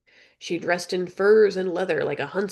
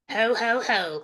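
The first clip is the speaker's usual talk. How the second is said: higher parrot copy of the chuckle; parrot mimicking; 4 semitones higher, slower than usual. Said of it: "Polly mimicked".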